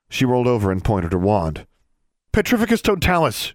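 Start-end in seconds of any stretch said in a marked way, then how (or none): 2.3-3.5 high, urgent yelled spell; yelling. A narrator's reading. Student casting a curse at the goat, yelling. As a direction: cry out the incantation. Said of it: "she yelled".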